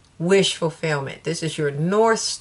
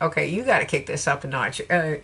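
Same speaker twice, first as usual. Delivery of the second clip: Southern talk. Retold or imitated. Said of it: "Spirit's like".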